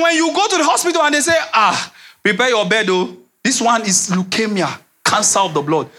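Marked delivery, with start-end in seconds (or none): 1.5-5.9 doctor's grave news. Acted. Doctor breaking grave diagnosis.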